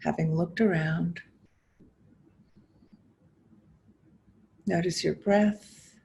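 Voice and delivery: measured guiding voice with long pauses between phrases; guided meditation. Acted. Teacher inviting listeners to notice body and breath, guided meditation. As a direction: invite them gently inward, phrase by phrase, leaving space. Leads a guided mindfulness exercise.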